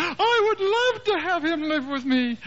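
grandmother answering in a high, laughing voice; sweet high granny, delighted, with a laugh; high old mother voice. Retold or imitated. Eighty-year-old mother, happily agreeing on the phone: high, laughing.

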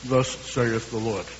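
slow, hammed-up solemn pronouncement; mock sound-chamber oracle. Preacher mocking a put-on holy voice to his congregation, slow and hammed-up. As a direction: intone it slowly like a pompous prophet. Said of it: "come out of some kind of sound chamber".

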